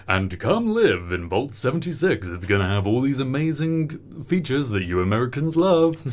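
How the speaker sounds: lightly hammed-up advert voice; promotional pitch. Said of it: "Vault-Tec's, uh, promotional material".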